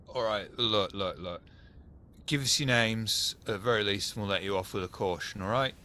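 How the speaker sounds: proper Cockney geezer copper; Cockney cop letting someone off; Cockney policeman. Acted. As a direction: give it a Cockney police officer's patter. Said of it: "like, proper Cockney geezers".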